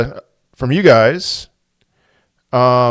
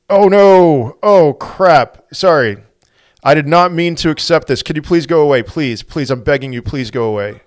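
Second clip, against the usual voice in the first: higher, louder, flustered begging; flustered pleading; 4 semitones higher, 5 dB louder than usual. Real, not acted. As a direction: plead with the caller to leave. Accidentally accepted a challenge invite.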